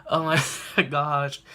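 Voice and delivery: slow oh my gosh broken by laughter; laughing. Real, not acted. Fan cracking up at the show, slow laughing. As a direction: laugh through the words. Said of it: "I'm just like".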